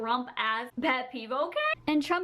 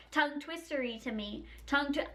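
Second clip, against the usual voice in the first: careful, unhurried tongue twister; deliberately slow demo. Shown as a demonstration. Mocking people who say they can do it, slow delivery. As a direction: say it slowly to show how easy that is. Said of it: "You didn't do it fast".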